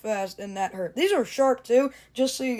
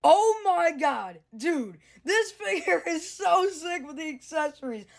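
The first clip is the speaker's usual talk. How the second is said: excited; 7 semitones higher than usual. Real, not acted. Figure with accessories thrills him.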